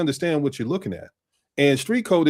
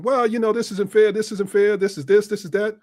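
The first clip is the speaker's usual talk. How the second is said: higher-pitched whiny listing of grievances; mock complaining; 5 semitones higher than usual. Mimicking workers who think it's unfair, mock complaining. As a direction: imitate a worker grumbling.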